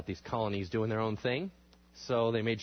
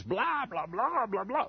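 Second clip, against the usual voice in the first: tag; 8 semitones higher, slower than usual. Retold or imitated. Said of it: "could not be more boring".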